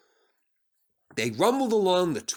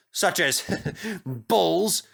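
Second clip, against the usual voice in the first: chuckling; 4 semitones higher, much slower than usual. Acted. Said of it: "Sir Topham Hatt chuckled".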